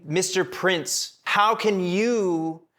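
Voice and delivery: butter up the prince, pitch lifted; sweet-talking the sulking prince; flattering schemer. Retold or imitated. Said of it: "It's like saying".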